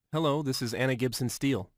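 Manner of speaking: gentle Irish woman's voice; soothing Irish accent. Retold or imitated. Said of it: "I heard a soothing Irish voice say".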